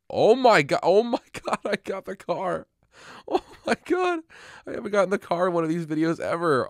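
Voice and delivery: high-pitched, thrilled and laughing; shrieking with surprise at winning; excited. Real, not acted. Wins the car on camera.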